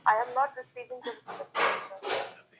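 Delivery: whispered inner thought about respect. Shown as a demonstration. Repeating the ego thought as whisper.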